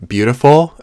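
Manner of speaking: a high, loud, thrilled "beautiful"; delighted gasp. Real, not acted. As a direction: gush over the cards. Delighted reaction to tarot cards.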